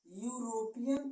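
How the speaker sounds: यूरोपियन said slowly with a yu start; demo pronunciation. Shown as a demonstration. Teacher shows how the word sounds. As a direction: stretch यूरोपियन to hear the yu. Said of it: "ये क्या मिलेगा".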